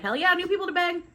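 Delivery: excited cheer. Retold or imitated. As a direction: cheer it like an eager crew. Crew cheering at meeting new people.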